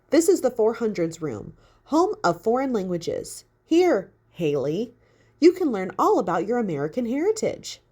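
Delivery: lightly voiced museum guide, bright and eager; perky guide voice. Talking mannequin greets Haley, lightly perky.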